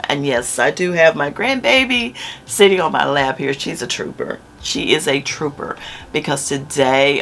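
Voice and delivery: normal talking voice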